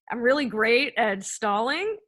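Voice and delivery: dry sarcastic self-jab; deadpan, not meaning it. Real, not acted. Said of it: "I'm being sarcastic".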